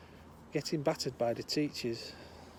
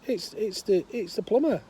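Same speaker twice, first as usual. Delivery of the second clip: raised, stammering plumber; plumber on phone; 7 semitones higher, 4 dB louder than usual. Acted. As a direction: try to get through to a deaf caller. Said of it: "Plumber goes".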